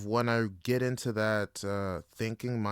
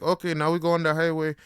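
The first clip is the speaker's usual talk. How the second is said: upbeat instructor; 5 semitones higher, 5 dB louder, faster than usual. Retold or imitated. Instructor voiced in story.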